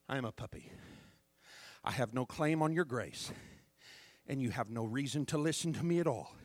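bow your voice low like a beggar; humble plea. Acted.

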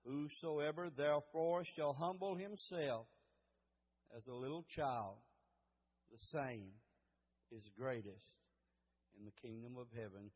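hushed Bible reading before prayer; solemn scripture reading. Real, not acted. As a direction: read the verse reverently, letting it sink down. Reads scripture before praying.

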